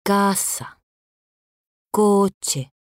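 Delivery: "Casa", "Coche" with CA and CO punched high; stressed first syllable. Shown as a demonstration. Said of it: "Acentuación". ("Casa", "Coche": acento fuerte en la primera sílaba)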